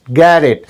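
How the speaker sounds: "get it" joined as geddit; linked native sound. Shown as a demonstration. Teacher repeating the native form, linked. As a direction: tap the middle t of "get it" into one word. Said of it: "not get it".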